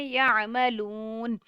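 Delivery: یعملون very slow, final ن sounded; voiced final noon. Shown as a demonstration. Teacher models the pause with ن sounded. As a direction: let the ن of یعملون ring. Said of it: "اس کا ایک sound آئے گا".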